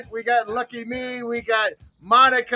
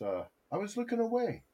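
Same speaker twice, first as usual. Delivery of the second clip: faint, turned away from the mic; speaking away from the microphone; far from mic; 13 dB quieter, faster than usual. Real, not acted. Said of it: "You sound like you're far away from the mic".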